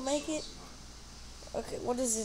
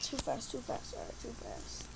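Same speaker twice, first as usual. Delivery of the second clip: breathless whispered too fast; hushed panic; 12 semitones lower, 9 dB quieter than usual. Real, not acted. Player speeding too fast, hushed whispered panic. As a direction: whisper it while clinging on.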